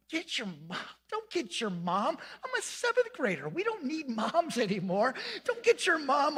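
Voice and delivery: mock panicked plea. Panicked kid begging friend.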